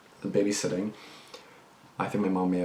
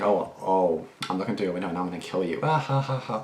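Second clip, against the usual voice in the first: mocking a giggling stalker threat; hammed-up creepy caller with a giggle; sneering impression of a girl's joke threat.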